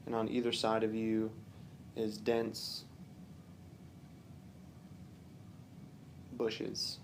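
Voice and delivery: calm, unhurried meditation guide with long pauses; relaxed guided-relaxation delivery, phrase by phrase; guided visualization. Real, not acted. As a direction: gently lead the listener through imagery, pausing often.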